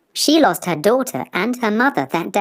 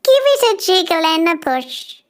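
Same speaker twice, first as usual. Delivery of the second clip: put-on old grandmother; 12 semitones higher, 3 dB louder than usual. Grandmother calling to her visitor, high and kindly. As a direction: invite them in like a sweet granny.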